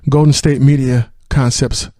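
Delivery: loud, grand proclamation to the cosmos; booming alien overlord. Acted. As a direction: announce it like an arrogant space emperor. Mock grand greeting to universe.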